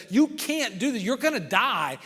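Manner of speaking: alarmed doubters. Acted. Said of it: "They're the doubters, the folks that are saying".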